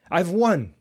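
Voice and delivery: loud, high whoop of victory; a gleeful old gentleman's cry; triumphant shout. Acted. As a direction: shout it as you slap his back. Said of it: "he shouted".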